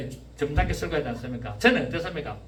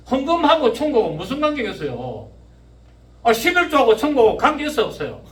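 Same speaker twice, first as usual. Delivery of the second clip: raised, pressing sermon questions; loud preaching challenge; 6 semitones higher, 6 dB louder than usual. Real, not acted. Preacher challenging link of tithe and heaven, loud preaching. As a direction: hurl the questions at the congregation, loud and high.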